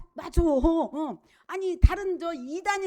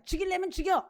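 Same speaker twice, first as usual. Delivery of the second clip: higher-pitched mock defiance; mock bravado; 5 semitones higher than usual. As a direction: play someone recklessly brave, without shouting. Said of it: "용기 백 배에서 말이야".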